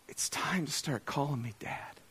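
hushed, slow inner prompting; gently, as God's Spirit to the heart; soft, slow. Retold or imitated. God's Spirit speaking softly to him.

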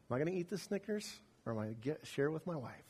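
soft, fast inner debate; quiet mock inner voice, soft and fast; hushed dilemma. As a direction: mutter the temptation to yourself.

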